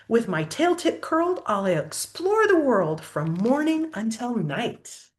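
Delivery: lively, sing-song storybook reading; picture-book story voice; reading to children. Acted. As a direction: read the rhyme aloud to a child. Reads story in rhyme.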